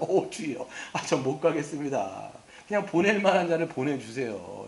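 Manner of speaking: slow, drawn-out plea of a reluctant man; pleading Moses. Acted. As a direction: beg God to send someone else, lightly acted. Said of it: "지금 감탄사가 막 나오는 거예요". (하나님께 못 가겠다고 하는 모세, 느리게 애원하듯)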